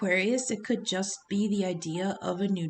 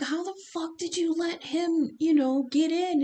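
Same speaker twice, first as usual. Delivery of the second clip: higher, rough demanding mock-grasshopper; angry grasshopper; 8 semitones higher than usual. Grasshoppers confront Richard Kind's character, mock angry demand. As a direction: bark the question like a furious boss. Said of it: "and they're like".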